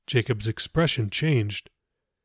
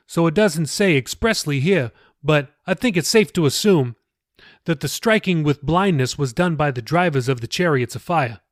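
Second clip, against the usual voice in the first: lightly voiced pastor; 3 semitones higher than usual. Pastor patiently explaining scripture to Jacob, lightly raised voice. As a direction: gently lift the voice for the pastor.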